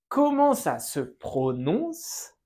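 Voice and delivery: slow, careful teacher model; slow model phrase. Shown as a demonstration. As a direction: pronounce each word slowly for learners. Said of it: "Vous pouvez répéter". (frase modelo lenta)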